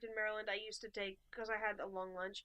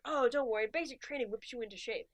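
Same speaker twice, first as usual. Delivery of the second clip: upbeat recruiter; 4 dB louder than usual. Retold or imitated. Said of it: "the guy's like".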